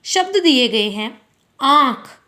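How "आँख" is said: आँख with the vowel nasalised, from nose and throat together; nose-and-throat vowel demo. Shown as a demonstration. Teacher showing pupils chandrabindu, आँख voiced through nose and throat. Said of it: "नाक और गले दोनों की सहायता से".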